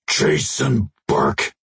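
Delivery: slow rumbling alien; low rumble. Acted. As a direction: rumble the name slowly. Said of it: "the alien rumbled".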